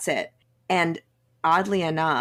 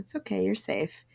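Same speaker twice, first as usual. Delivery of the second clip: softer, tender reassurance; 4 semitones higher, 5 dB quieter than usual. Retold or imitated. Friend calming a frustrated friend, soft and tender. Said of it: "she put her hand on my shoulder".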